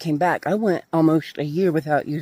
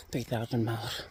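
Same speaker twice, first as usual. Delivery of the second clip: wrong take; 5 semitones lower, 8 dB quieter than usual. Real, not acted. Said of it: "My bad".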